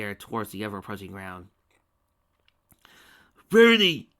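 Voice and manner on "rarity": higher, loud anguished cry; cried out. A narrator's reading. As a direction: cry her name in despair. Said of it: "cried Spike".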